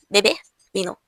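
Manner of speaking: beber vino with soft b's, lips not closing. Shown as a demonstration. Teacher modelling the soft Spanish b. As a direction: blow beber vino out gently through the lips. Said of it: "os lábios, eles não vão se fechar".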